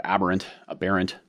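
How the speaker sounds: "aberrant" once with stress on AB, then once with stress on the middle BER; "aberrant, aberrant" tried first on the first syllable, then on the second; playing with stress. Shown as a demonstration. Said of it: "emphasis on the right syllable is how I like to say that".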